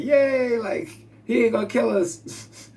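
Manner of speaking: high squeaky cheer for the tiny ants; happy ants. Retold or imitated. Ants relieved the human won't kill them, high cheer.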